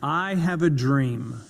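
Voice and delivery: I have a dream in a slow, weighty cadence; measured cadence. Shown as a demonstration. Speaker quoting Martin Luther King to show cadence. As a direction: let each word land. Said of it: "As you notice with the cadence".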